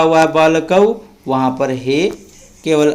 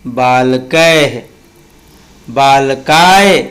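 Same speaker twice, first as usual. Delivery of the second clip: slow recitation drill. Shown as a demonstration. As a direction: chant the declension for the class to repeat. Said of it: "चलिए एक बार और मेरे साथ पढ़िए।".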